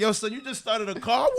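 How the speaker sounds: put-on Caribbean accent. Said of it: "It'd be like".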